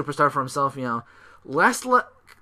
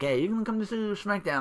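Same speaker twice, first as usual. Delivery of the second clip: mock wrestler; 8 semitones higher, 5 dB quieter than usual. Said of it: "He's like".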